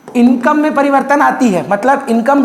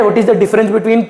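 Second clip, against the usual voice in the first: each word spaced out, very slow; dictating the exam question slowly; slow dictation; much slower than usual. Shown as a demonstration. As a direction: spell it out for note-taking. Teacher dictating key question.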